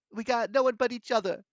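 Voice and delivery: put-on high, loud, breaking girl's plea; voice breaking a little. A narrator's reading. Bianca saying siblings are all alone, voice breaking. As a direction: let the high voice break slightly. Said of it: "her voice broke a little".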